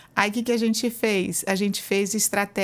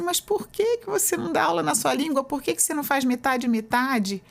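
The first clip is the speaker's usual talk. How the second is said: incredulous question; 6 semitones higher than usual. Retold or imitated. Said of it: "Aí eu falo assim".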